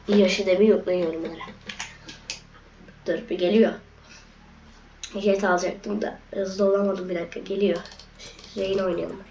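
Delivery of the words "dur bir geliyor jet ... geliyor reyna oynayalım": holding back a sneeze, strained. Real, not acted. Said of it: "Bu arada hapşuracağım".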